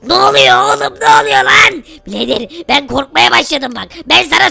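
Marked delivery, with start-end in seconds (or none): 0.1-1.8 shouting in alarm; panicked shout. Real, not acted. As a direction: yell out, what's happening.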